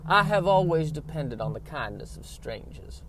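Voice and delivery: hammed-up fragile belle; Blanche Dubois. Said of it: "Blanche Dubois and Blanche from The Golden Girls".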